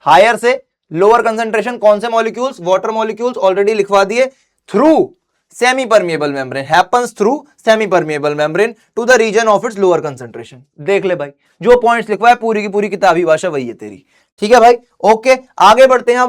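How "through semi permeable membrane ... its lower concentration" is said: each word spelled out slowly for notes; slow dictation. Acted. Dictating the textbook definition.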